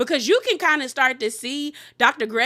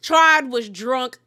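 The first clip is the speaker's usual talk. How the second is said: slow emphasis; 5 dB louder, slower than usual. Real, not acted. Repeats it slowly for emphasis.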